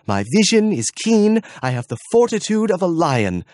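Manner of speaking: high, loud proud boast; boastful guard voice. Acted. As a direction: puff up and brag loudly. Gruffanet boasting of vigilance.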